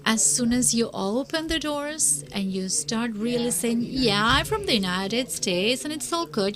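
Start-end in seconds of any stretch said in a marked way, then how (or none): 3.8-6.6 lightly put-on American accent; exaggerated American intonation. Shown as a demonstration. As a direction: play at being from the United States, American intonation. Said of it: "speaking with the intonation".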